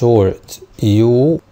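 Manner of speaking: short U stretched very slowly. Shown as a demonstration. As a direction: drag out short يو. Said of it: "short يو هتنطق أ".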